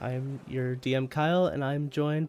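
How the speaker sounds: stuffy nose from a cold; blocked nose. Real, not acted. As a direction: talk through a stuffed-up nose. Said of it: "I am still a bit stuffy".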